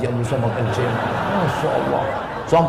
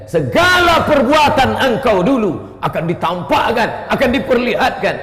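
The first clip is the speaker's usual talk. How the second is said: solemn warning; 9 semitones higher, 4 dB louder than usual. Acted. Warning of the final moment.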